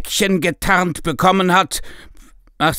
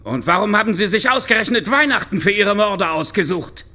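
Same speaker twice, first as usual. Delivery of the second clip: angry demand; 4 semitones higher than usual. Acted. Inspector confronts the killer.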